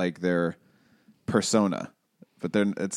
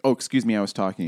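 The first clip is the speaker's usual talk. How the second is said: mock blunt retort; faster than usual. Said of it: "they're like".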